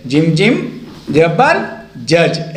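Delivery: जिम जिम rising, pause, then a slow जबर जज; spelling-out demonstration. Shown as a demonstration. Teacher models reading for learners, slowly spelling out जिम जिम जबर जज. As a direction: recite जिम जिम जबर in separate steps, landing on जज. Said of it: "ऐसे ही पढ़ा जाता है जैसे मैं आपको पढ़ रहा हूँ".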